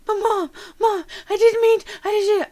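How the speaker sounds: put-on high, loud whining child; pleading kid. Kid pleading with his mother, high and loud. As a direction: plead desperately with mom.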